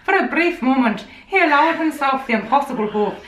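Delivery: put-on lilting go at an Irish accent.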